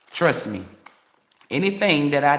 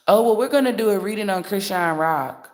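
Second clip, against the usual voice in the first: higher, lightly put-on reader voice; gently hammed-up announcer mimicry, higher; mock reader announcement; 5 semitones higher than usual. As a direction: imitate a reader announcing, pitched up.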